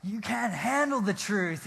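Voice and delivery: lightly voiced Tom Cruise courtroom line; a hint of the movie lawyer, punchy. Pastor imagining himself as the movie lawyer, lightly voiced Tom Cruise. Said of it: "I was Tom Cruise".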